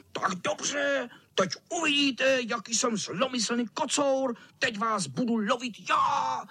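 high hissing villain cat, whispered start then calling out; hissing mean cat. A narrator's reading. Cat threatens the boys, high hissing menace. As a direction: hiss it like a nasty tomcat about to pounce. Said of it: "sýpal kocour".

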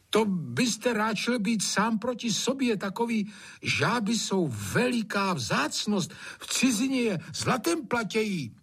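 high, careful, slowing plea; sly gamekeeper. Acted. Hajný daring to speak up to save the frogs. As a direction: coax the master with a tall tale.

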